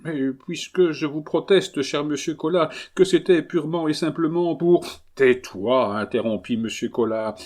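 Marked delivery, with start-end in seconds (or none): 0.0-6.0 put-on pleading young man. A narrator's reading. Adolphe pleads his innocence.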